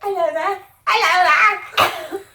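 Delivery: exaggerated, badly faked Australian greeting; attempted Australian accent. Practising greetings for a friend, hammed-up Australian accent. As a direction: have a clumsy go at Australian. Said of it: "I can't do an Australian".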